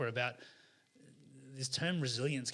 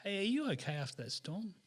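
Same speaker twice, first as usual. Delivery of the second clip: higher, eager little monkey asking; 8 semitones higher than usual. Acted. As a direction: ask like a small, anxious monkey. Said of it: "the monkey says to the squirrel".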